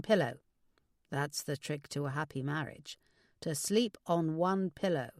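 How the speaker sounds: lightly voiced dad passing on old wisdom; a hint of a storytelling dad; reminiscing father. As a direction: tell it as a father recalling his honeymoon. Father tells honeymoon advice.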